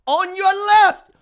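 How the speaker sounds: high, loud, slow movie line; Falcon quote. Retold or imitated. Host reciting Falcon's line, loud and slow. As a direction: savor the line like the hero. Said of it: "I got you, Cap".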